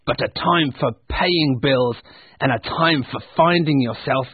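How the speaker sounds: emphatic, sour argument; grumpy Scrooge. Acted. Scrooge lecturing his nephew on Christmas, grumpy. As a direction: press each point with irritation. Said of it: "said Scrooge".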